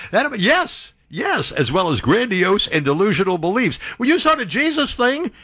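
pitched far up, keen yes yes; high, animated confirmation; eager agreement. Real, not acted. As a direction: jump in excitedly agreeing. Excited agreement with the list.

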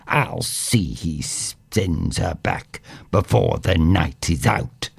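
a hint of a scheming stepmother; wicked stepmother. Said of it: "she said".

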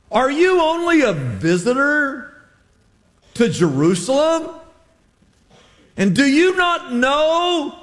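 high, stretched disbelief; incredulous question. Acted. Cleopas to the stranger, high and slowly incredulous. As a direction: ask it as if he can't believe it.

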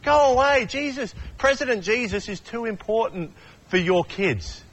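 high, haughty brush-off, mock self-important; dismissive disciples. Disciples turning parents away, haughty and high. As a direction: shoo the parents away like you're too important. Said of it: "the disciples say".

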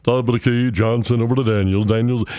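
a light deep play-by-play impression; deep announcer voice. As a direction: drop the voice and call it like the old mentor.

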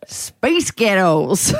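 slow, stretched American "space ghettos"; American accent. Shown as a demonstration. Host demonstrates the accent trick to co-host, American accent. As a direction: say it slowly with an American twang. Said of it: "in an American accent".

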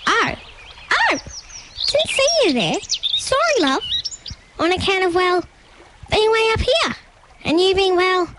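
high, startled emu exclamation; greatly surprised. A narrator's reading. Gladys spots the tiny creature below her, high surprised exclamation. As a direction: pitch it up, flustered and hunting for words. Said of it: "exclaimed Gladys with great surprise".

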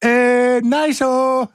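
silly voice. Pretend. Silly voice after a take.

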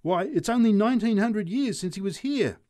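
put-on a drunk heckling a street preacher; shouted. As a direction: yell it across the crowd. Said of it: "shouted the drunk".

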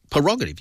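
"Prerogative" begun as per-ROG-ative; mispronounced prerogative. Retold or imitated. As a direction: swap the first sounds of "Prerogative" to per. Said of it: "not prerogative".

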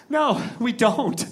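very slow, drawn-out admission; mock-humble honesty. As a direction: stretch it out as a would-be humble confession. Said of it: "as humbly and honestly as I could".

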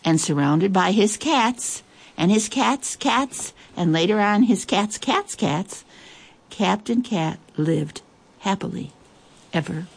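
measured, expressive picture-book reading; story narration. A narrator's reading. Host reads a cat story to listeners, story narration. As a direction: read it aloud with lingering pauses between phrases.

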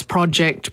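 "project" said PROJ-ect; short-O pronunciation. Shown as a demonstration. Linguist giving British and American example, short-O project. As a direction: give "project" a short first O. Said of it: "American English generally accords with British English".

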